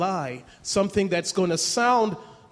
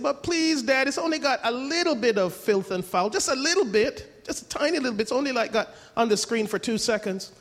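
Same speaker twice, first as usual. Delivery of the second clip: put-on much higher pleading teen voice; whiny teen plea; 4 semitones higher than usual. Teenagers begging their dad to see the movie, whiny.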